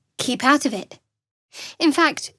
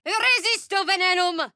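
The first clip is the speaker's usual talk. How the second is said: spell incantation; 8 semitones higher than usual. Acted. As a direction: call out the spell like a battle cry. Casting a spell in combat.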